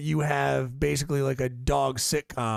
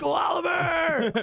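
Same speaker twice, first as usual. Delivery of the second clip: high, slow, drawn-out yell of a brand name; playful shout; 13 semitones higher, slower than usual. Pretend. Friend shouting a goofy pickle brand name, high slow playful yell. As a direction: belt it out like a jingle.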